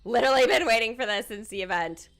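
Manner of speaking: fast, tumbling excitement; can't wait, words spilling; real giddy anticipation; eager rush. Real, not acted. Excitedly waiting to see them.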